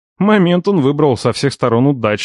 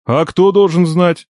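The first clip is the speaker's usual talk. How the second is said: amazed; 6 semitones higher, 3 dB louder, slower than usual. A narrator's reading. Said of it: "изумился дядя".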